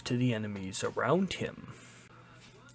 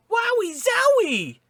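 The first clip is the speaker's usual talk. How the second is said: much higher and louder, a giddy cartoon whoop; cartoon elephant cheer; 6 dB louder than usual. Gamer imitating elephant Mario's excited whoop. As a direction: blurt it like a thrilled cartoon Mario. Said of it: "and saying".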